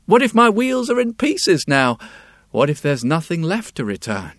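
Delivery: anxious fretting. Acted. Wheelwright worrying aloud.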